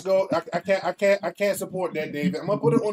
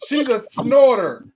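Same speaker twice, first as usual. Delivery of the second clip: high, loud, laughing through it; 7 semitones higher, 6 dB louder than usual. Real, not acted. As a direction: crack up while teasing. Laughing about the snort.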